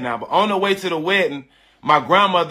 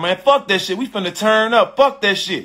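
imitating a hyped friend, raised pitch; mock rowdy urging, pitched up a little; 4 semitones higher than usual. Friend in the background urging a party, imitated hype.

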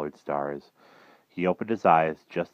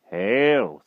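slightly raised, measured greeting; composed magician; 5 semitones higher, 6 dB louder than usual. A narrator's reading. Magician greets king once more, composed. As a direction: intone it with composure.

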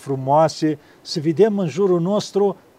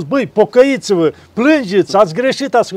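mildly raised mock reproach; mock scolding; 3 semitones higher than usual. Preotul imitând o mustrare aspră, ușor ridicat. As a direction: pretend to scold the sinners. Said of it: "nu au spus".

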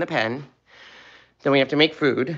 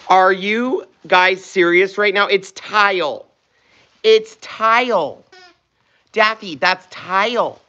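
exasperated; 3 semitones higher, slower than usual. Real, not acted. Puppies chewing the tile.

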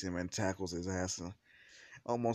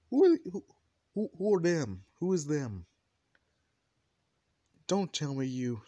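high, loud stammering outrage; jealous outburst; 7 semitones higher, 9 dB louder than usual. Acted. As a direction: sputter it high and loud, hammed-up. Jealous figure spots the women.

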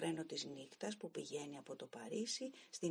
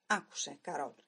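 1 trembling with anger; 3 semitones lower, 5 dB louder than usual. Acted. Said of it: "τρέμοντας από το θυμό μου".

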